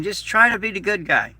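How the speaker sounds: "try" pushed up high and leaned on; "try" given the weight of the whole sentence; stress on TRY. Shown as a demonstration. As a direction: lean hard on "try" as the key word. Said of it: "I emphasize the word try".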